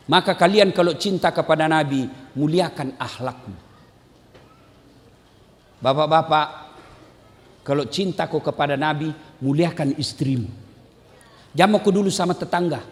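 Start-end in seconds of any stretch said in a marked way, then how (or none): 0.1-10.5 lower, much softer, earnest; preacher repeating his call gently and low; soft closing plea. Acted. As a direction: bring it down to a quiet appeal.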